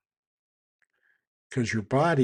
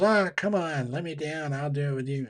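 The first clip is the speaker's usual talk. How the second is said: put-on pleading little girl; 3 semitones higher than usual. Voicing little girl pleading in story.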